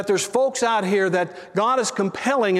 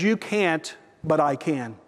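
tender; 4 semitones lower, slower than usual. Retold or imitated. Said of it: "in that tender voice".

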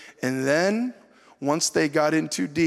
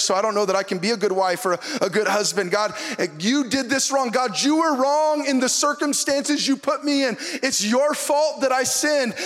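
mock complaining to God; 4 semitones higher than usual.

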